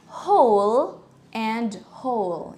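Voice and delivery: whole said slowly like hole, with an O sound; same O sound. Shown as a demonstration. Teacher showing both words sound alike, careful O sound. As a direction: draw out whole with a clear O. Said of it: "they have the same pronunciation".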